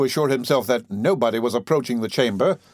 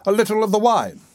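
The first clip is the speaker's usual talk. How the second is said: coaxing, pitched up; soothing; 8 semitones higher than usual. A narrator's reading. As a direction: offer it soothingly in a higher voice. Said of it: "said Mister Bumble soothingly".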